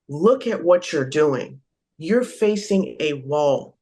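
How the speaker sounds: slow, deliberate telling; measured, spaced-out advice; firm instruction. Acted. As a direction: spell it out slowly for someone who's confused. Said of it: "you gotta tell that person".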